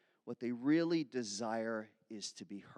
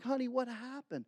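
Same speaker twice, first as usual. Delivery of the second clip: tender parent; 10 semitones higher than usual. Retold or imitated. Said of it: "You're like".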